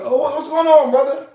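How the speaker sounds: upbeat check-in. Shown as a demonstration. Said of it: "this is how I talk".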